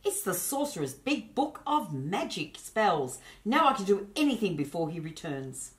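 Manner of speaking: put-on boy thrilled to find the spell book; delighted boy. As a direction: marvel at the book. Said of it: "cried Hugh with delight".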